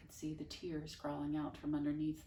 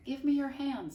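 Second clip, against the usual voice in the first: high, louder repeated request; repeating the request more firmly; firmer repeat; 10 semitones higher, 7 dB louder than usual. Acted. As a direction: say it again, insisting. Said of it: "said Flora again".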